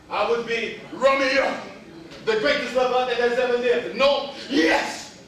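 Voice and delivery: lightly voiced grand lover introducing himself; slow theatrical opening, swelling to a proud cry; boastful Romeo. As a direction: play a hammy self-declared great lover.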